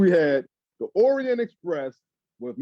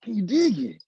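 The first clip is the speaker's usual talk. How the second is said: Macho Man hushed mock; lightly voiced library voice; 5 semitones higher than usual. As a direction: claim this is your library voice. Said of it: "this is my library voice".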